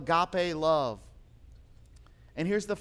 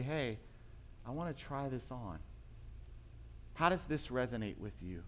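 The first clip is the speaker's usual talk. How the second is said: said with love; 3 semitones lower, 8 dB quieter than usual. Retold or imitated. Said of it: "because of the way that he was saying it".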